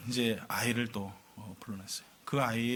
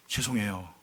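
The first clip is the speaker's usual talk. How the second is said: put-on low, soft child's apology; hushed retold sorry; meek apology; 7 semitones lower, 6 dB quieter, slower than usual. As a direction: imitate a chastened child, subdued. Scolded child apologises meekly to mother.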